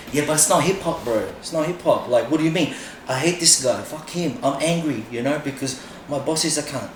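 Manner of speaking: hams up a fed-up dancer's complaint; mock frustrated dancer. Dancer complaining the Olympics isn't hip hop, in a mock whine. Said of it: "we have to play this game".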